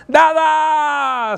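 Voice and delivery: put-on high, loud child's cry of Dada; grito de niña. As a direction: call out like a little girl thrilled to see dad. Hija grita al verlo llegar. (grito agudo de niña feliz)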